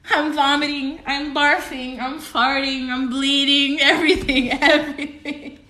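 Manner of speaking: giddy laughing list. Real, not acted. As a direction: pile it on while laughing. Overwhelmed comic exaggeration.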